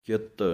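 "ਚਿੱਤ" with a tight, doubled t, short u vowel; "ਚਿੱਤ" pronounced as chitt, held tight on the t; said tightly. Shown as a demonstration. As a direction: clip "ਚਿੱਤ" firmly with the aunkar. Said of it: "ਥੋੜ੍ਹਾ ਕੱਸ ਕੇ ਬੋਲਣਾ ਹੈ".

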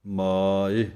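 ਮਾਇ ਦਾ ਕੰਨਾ ਲੰਮਾ; ਮਾਇ, ਆ ਨੂੰ ਖਿੱਚ ਕੇ ਬੋਲੋ; long vowel. Shown as a demonstration. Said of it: "ਕੰਨੇ ਨੂੰ ਲੰਮਾ ਕਰਕੇ". (ਲੰਮੇ ਆ ਵਾਲਾ ਮਾਇ)

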